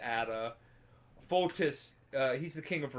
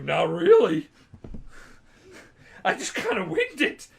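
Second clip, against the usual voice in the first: sheepish laughing admission; 5 semitones higher, 6 dB louder than usual. Retold or imitated. Geralt sheepishly admits winging it.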